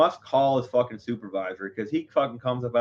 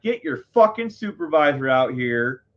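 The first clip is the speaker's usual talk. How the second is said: mild re-enacted yell, pitch raised; half-yell it as if demanding; retold yelling; 4 semitones higher, 4 dB louder than usual. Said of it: "So I start yelling".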